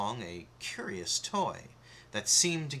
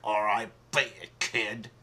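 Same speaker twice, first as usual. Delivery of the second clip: murmured; 3 dB louder than usual. Acted. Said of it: "He murmured".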